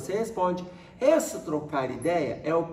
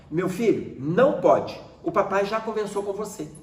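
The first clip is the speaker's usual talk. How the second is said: firmer voice; 2 semitones higher than usual. Shown as a demonstration. Father warning his son off the wall, firmly. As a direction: put your foot down, no more discussion. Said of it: "com uma voz mais firme".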